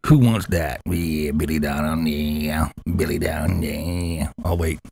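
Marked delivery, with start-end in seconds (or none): 0.8-4.3 low, slow, mumbling mock voice; imitating Billy. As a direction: mumble low like a grumpy old man. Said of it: "I gotta do it like Billy".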